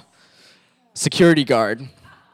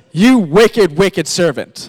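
stern rebuke; 2 semitones higher, 7 dB louder, slower than usual. Acted. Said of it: "And the king says".

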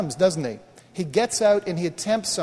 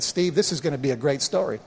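understated retelling of a reassuring voice; Father God's message; 3 semitones lower than usual. Retold or imitated. God speaking to pastor in the water, understated reassurance. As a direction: quote it evenly, settling down at the end. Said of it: "my father spoke to me and said".

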